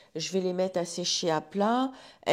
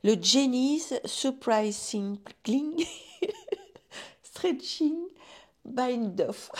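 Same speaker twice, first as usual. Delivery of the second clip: "Jenny's Surprising Stretching Bind Off" lu avec un fort accent français, un peu plus aigu et en riant; accent français en anglais; 5 semitones higher, 3 dB louder, much slower than usual. Real, not acted. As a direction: lit le nom anglais avec hésitation, accent français marqué. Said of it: "ne vous moquez pas de mon anglais". (anglais hésitant à la française)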